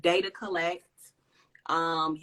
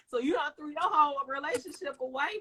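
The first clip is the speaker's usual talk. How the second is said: laughing; 7 semitones higher than usual. Real, not acted. Laughs at the thought.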